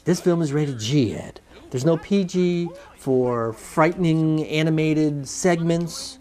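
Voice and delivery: slow, deliberate announcement; mock-official ratings read. Host explaining the G rating to Ed, slow mock-official read. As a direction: list each item drawn out, like a formal notice.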